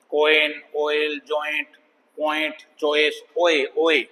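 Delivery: slow list, कोइन to चॉइस, gliding on "oi"; oi diphthong. Shown as a demonstration. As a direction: draw out the "oi" in कोइन, ऑयल, जॉइंट. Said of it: "ये diphthong है".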